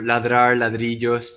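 Ladrar and ladrillos said with a Spanish r; Ladrar, ladrillos spoken as a sound comparison; pronouncing words. Shown as a demonstration. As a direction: lay ladrar then ladrillos side by side. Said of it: "bricks and ladrar are very similar".

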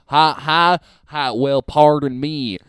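lightly hammed-up American Southern accent. Host introducing Southern to co-host, mock Southern accent. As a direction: put on a mock Southern politeness. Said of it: "We'll go Southern".

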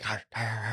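soft mock dog noises, "har, har"; imitated corgi snapping. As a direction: lightly imitate little dogs biting at air. Imitating two corgis air-biting.

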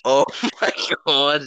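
high, shaken oh my God; real fright, voice jumps up; startled. Real, not acted. Brother walked in, startled.

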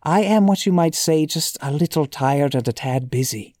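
reading aloud in a lightly put-on Irish accent; a hint of hammy, amateur Irish brogue; awful Irish accent. Shown as a demonstration. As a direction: try a little bad Irish accent. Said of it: "awful accent".

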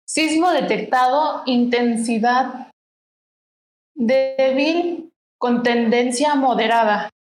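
tag. Retold or imitated. Reads out phone quake alert.

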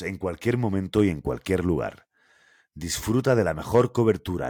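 steady commercial read, slogan slowed; ad voice-over read. Shown as a demonstration. Host reads a telecom ad aloud, commercial voice-over style. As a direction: announce it like a phone company ad.

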